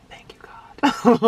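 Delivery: breathy, slow whispered prayer; imitated relieved thanks. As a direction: whisper your relief up to God. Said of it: "Like that".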